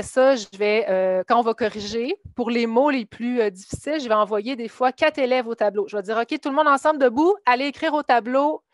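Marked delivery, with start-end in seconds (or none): 6.2-8.6 raised, higher teacher voice calling the room; rally the whole class up to the board. Retold or imitated. Teacher calling out, summoning every student to the board.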